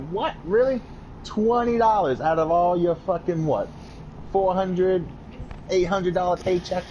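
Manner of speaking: mock outrage, pitching up on Really; retold disbelief. Telling listeners how he reacted to twenty dollars, in incredulous disbelief.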